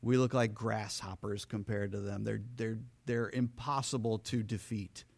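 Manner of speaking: low, hushed, awed report; a mild, hushed fear of giants; scared spies. Acted. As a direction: report it low and wide-eyed. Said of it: "the spies came back and they said".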